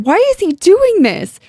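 very high cry of dismay; distraught cry. Acted. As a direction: wail the question in disbelief. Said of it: "Shannon cried".

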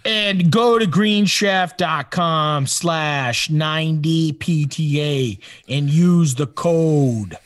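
put-on slow ad read in a Chicago accent. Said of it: "A Chicago accent?".

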